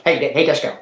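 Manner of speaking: lightly imitated buddy on the radio; a hint of a friend's way of talking; Fister. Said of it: "That's how Fister talks".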